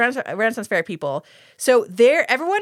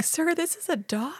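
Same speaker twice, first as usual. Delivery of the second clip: mock incredulity; 6 semitones higher, 8 dB quieter than usual. Mock-incredulous aside to the villain.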